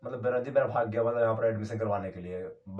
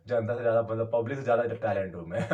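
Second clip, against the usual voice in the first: laughing brag; 4 dB louder, faster than usual. Real, not acted. Joking boast.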